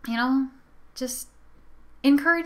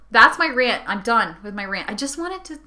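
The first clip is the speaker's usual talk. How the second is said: ordinary delivery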